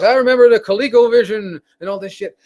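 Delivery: put-on old guy voice. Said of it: "they sound like these old fucks".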